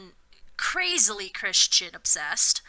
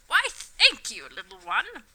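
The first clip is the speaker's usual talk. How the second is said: slow Southern drawl, higher; southern twang; 4 semitones higher than usual. Acted. Reverend Dumbledore greeting Harry in a Southern accent. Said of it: "distinctive southern twang".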